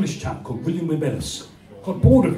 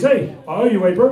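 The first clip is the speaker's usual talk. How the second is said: mock New Zealand accent, slightly higher; Kiwi accent; 3 semitones higher, faster than usual. Comic decoding Kiwi vowels as chat, Kiwi accent. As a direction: put on a matey Kiwi accent. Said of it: "what they're really saying is".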